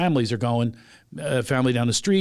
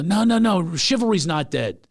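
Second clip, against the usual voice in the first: higher-pitched, emphatic string of objections; retold gallant protest; 4 semitones higher than usual. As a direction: re-enact chivalrous insistence. Retold gallant objection to her refusal.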